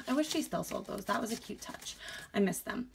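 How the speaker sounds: short of breath, quiet and puffing. Real, not acted. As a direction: talk while still winded. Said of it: "Can I breathe?".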